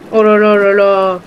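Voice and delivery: loud, thrilled oh là là; a burst of gamer excitement; amazed exclamation. Real, not acted. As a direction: cry out in delight at the catch. Player amazed at game catch.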